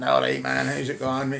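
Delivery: a plain Wishaw greeting, lightly put on; Wishaw accent. Shown as a demonstration. A man showing the old Wishaw accent he grew up with, lightly voiced. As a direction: say it like the local Wishaw lads used to. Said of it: "so I talk like that".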